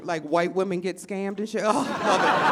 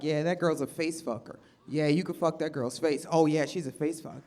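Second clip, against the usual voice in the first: lightly voiced low boys, quieter; teen boys; 7 semitones lower, 6 dB quieter than usual. Comic imitating schoolboys looking at phone pictures. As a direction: mumble it like lazy teenage boys.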